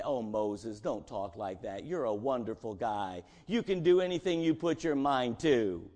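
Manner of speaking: pat Moses on the head gently; mock coddling. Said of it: "God does not say".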